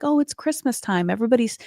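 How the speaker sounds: high-pitched, merry imitation; mock festive cheer. Imitating silly Christmas rom-com mood, mock festive cheer. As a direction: gush it like a silly Christmas movie.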